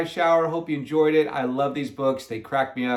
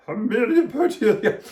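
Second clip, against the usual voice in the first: raised-pitch lady's character voice; Miss Ralph; 6 semitones higher, 3 dB louder than usual. A narrator's reading. Miss Ralph questions Amelia Bedelia, put-on higher voice. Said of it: "she asked".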